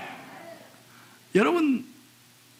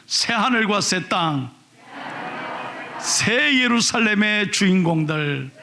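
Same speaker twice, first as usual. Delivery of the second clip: 크게 낭독; slower than usual. Shown as a demonstration. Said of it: "크게 한번 읽겠습니다".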